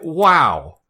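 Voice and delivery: lightly voiced brash villain; a hint of an unroyal tough guy; rough-spoken king. Ganondorf brushes off a kid who draws his sword, lightly rough-spoken. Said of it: "He has very rough".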